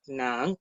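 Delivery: "nan" with a rising second tone. Shown as a demonstration. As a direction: lift the pitch through "nan". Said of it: "en segundo tono".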